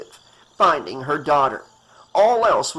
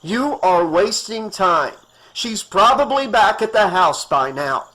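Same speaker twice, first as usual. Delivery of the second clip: urgent; 4 semitones higher, 5 dB louder than usual. Acted. Doctor urging hysterical woman.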